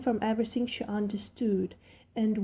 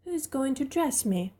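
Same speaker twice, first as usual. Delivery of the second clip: demanding; 4 semitones higher than usual. Acted. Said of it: "demanded Mary".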